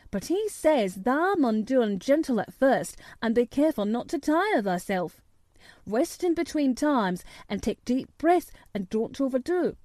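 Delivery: put-on country boy giving careful advice in dialect; lilting dialect, kindly instructing; lightly voiced Yorkshire lad. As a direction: coach him gently in Yorkshire speech. Dickon passes on careful advice.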